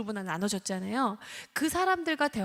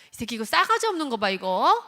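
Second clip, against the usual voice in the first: loud, fast, higher scolding rant; blaming scold; 4 semitones higher, 8 dB louder, faster than usual. Retold or imitated. Parent blaming the rude child, loud fast scolding. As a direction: tear into the child for rudeness. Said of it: "하면서 비난을 하기 시작하죠".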